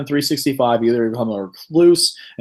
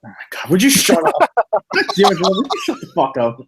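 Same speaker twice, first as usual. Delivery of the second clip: exasperated, raised voice; annoyed yelling; 7 semitones higher, faster than usual. Real, not acted. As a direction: tell him to shut up. Yelling at Will interrupting.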